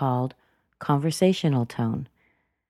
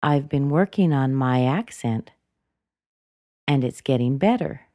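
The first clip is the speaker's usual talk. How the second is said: "accent" pushed up slightly, then dropped back; rise and fall intonation. Shown as a demonstration. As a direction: pause after "accent", then "better" up and down. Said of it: "push it up just a little bit higher".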